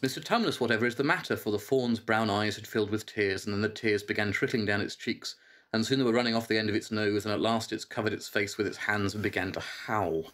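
lively read-aloud narration; story reading. Acted. Reads Narnia passage aloud.

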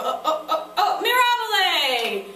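laughing "oh, oh, oh, mirabile!", loud and slowed. Shown as a demonstration. Teacher acting out a student laughing off a mistake. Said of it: "you make a mistake and then you go".

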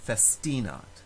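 "festinat" with a long stressed TI; stress on middle syllable. Shown as a demonstration. Teacher showing a long vowel takes stress, middle-syllable stress. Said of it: "that syllable automatically receives the stress".

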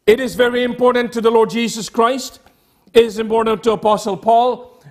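normal talking voice

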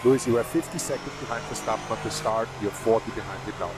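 crackly team radio voice; race car radio. Real, not acted. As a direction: engineer talking over the radio. Engineer over team radio.

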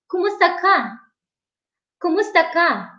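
"kumusta ka" said evenly and clearly, falling at the end; repeat-after-me model. Shown as a demonstration. Teacher asking viewers to repeat after her, "kumusta ka" clearly with falling end. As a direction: model "kumusta ka" for learners, pausing between takes. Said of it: "Okay, you say, repeat".

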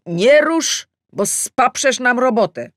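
quoting a coworker's sharp don't-touch; lightly voiced coworker scolding; colleague's warning.

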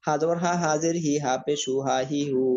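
rhythmic, even-toned letter-by-letter spelling drill; recitation drill. Shown as a demonstration. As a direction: chant out the letters evenly for learners to follow. Combined vowel spelling drill.

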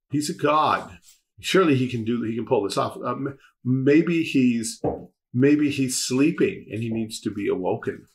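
mocking. Elijah taunting the prophets about their god, mildly mocking. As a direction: feign helpful guesses to taunt them. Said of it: "Elijah starts mocking them".

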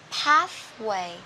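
American accent, PATHWAY with the open "a" of cat. Shown as a demonstration. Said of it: "Anh Mỹ sẽ đọc là". (giọng Mỹ, PATHWAY âm e bẹt)

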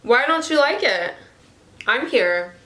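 normal talking voice

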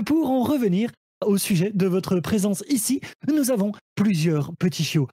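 peppy shopping-channel pitch; infomercial host. Acted. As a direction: sell each puppy like a TV deal. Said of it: "je serai à la manière d'un téléachat". (animateur de téléachat)

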